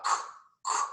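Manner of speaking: C, c só o som surdo, sem vogal; som do C isolado. Shown as a demonstration. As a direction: solte só o estalo do c, baixinho. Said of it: "Ó o som do C". (só o som do c, sem voz)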